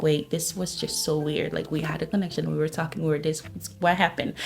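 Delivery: put-on jilted girl wondering what happened; hurt. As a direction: puzzle it out quietly, a little hurt. Confused heartbroken inner voice.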